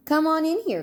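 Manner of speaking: called out loud and high; calling out. A narrator's reading. Lizzie calling Sister into the garage, loud and high. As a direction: call her in from across the garage. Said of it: "called Lizzie from the garage".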